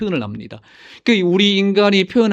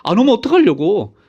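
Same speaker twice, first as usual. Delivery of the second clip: mock them as onlookers would; imitated mockery; 2 semitones higher than usual. Society scoffing at date-setting believers, imitated mockery. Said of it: "막 조롱을 했습니다".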